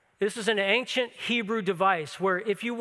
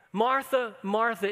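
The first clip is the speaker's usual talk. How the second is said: tender appeal; 3 semitones higher, slower than usual. Retold or imitated. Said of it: "this tender appeal from Jesus".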